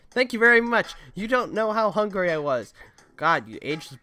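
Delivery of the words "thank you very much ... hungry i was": excited character voice. Acted.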